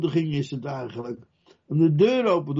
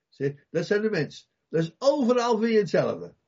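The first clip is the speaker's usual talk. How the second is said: usual speaking voice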